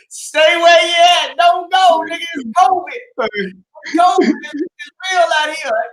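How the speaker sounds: mock yelled warning. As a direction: yell at him to stay where he is. Friend yelling warning to stay put.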